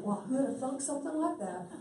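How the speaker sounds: chuckling ironic remark; laughing. Real, not acted. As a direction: say it through a laugh.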